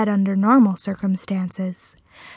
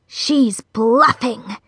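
very slow spider voice; slow, creepy accusation; sinister spider; much slower than usual. A narrator's reading. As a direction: draw the words out menacingly. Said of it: "said one of the spiders".

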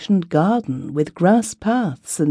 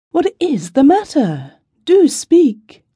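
high, pressing plea, stress on What; anxious urging; 10 semitones higher, 3 dB louder than usual. A narrator's reading. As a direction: beg her to speak, worried. Husband urges weeping wife.

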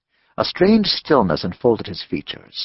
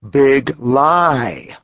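louder, booming accusation; thundering; 4 semitones higher, 5 dB louder than usual. Acted. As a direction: hurl the words. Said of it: "the Indian thundered".

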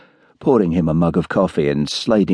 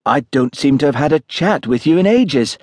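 lightly cheerful, higher-pitched chat; 7 semitones higher than usual. A narrator's reading. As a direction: chat brightly to a welcome visitor. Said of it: "said Angela cheerfully".

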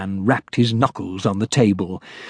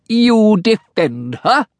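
exclaimed; 10 semitones higher, 3 dB louder than usual. Acted. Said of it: "exclaimed Sharpnack".

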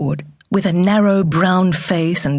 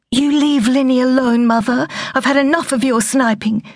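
furious mother; 7 semitones higher than usual. Acted. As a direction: snap at her own mother in fury. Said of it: "heard the fury and Lynette heard the shakiness".

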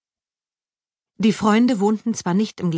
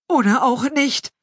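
pinching nose, higher voice; holding the nose against a stench; smelling something awful; 7 semitones higher, 3 dB louder than usual. A narrator's reading. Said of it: "hielt sich die Nase zu".

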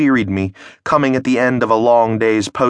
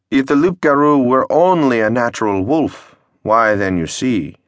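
blustery pompous mayor; 2 semitones higher than usual. Acted. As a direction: bluster like a small-town mayor.

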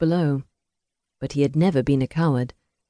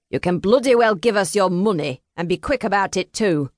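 demanding trickster; 4 semitones higher than usual. A narrator's reading. Trickster demanding Adam's money at gunpoint, menacing demand. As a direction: threaten him into paying up, fast. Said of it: "the trickster demanded".

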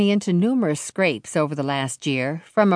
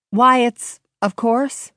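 brighter, higher quoted voice; Virgil's cheerful quote; 6 semitones higher, 4 dB louder, slower than usual. Acted. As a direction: lift it as Virgil. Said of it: "that's all he said".

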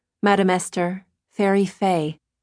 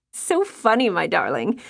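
smiling. A narrator's reading.

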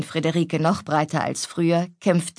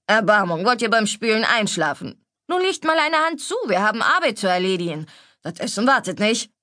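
cook scolding; 3 semitones higher, faster than usual. Acted. Cook Schneider hurries the maids at the sink, mildly scolding. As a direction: chivvy the maids along like a stout cook.

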